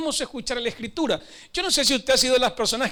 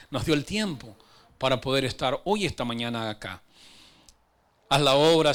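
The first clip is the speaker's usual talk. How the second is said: lower-pitched prayer to Jesus; 6 semitones lower than usual. Real, not acted. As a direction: pray earnestly, pitched under your preaching voice. Leads a prayer.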